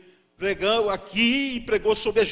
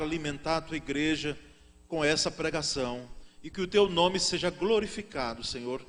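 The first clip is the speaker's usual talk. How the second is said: prayer; 3 semitones lower than usual. Acted. Pastor praying aloud before the congregation, hushed and earnest. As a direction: pray humbly before preaching.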